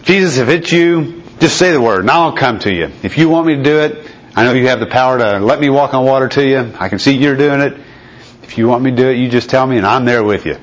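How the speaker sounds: earnest, pleading with Jesus; eager Peter. Acted. Preacher voices Peter's eager plea.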